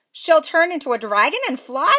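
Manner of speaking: half-deaf fairy asking back; deaf old fairy. A narrator's reading. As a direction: mishear and ask back. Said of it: "she said".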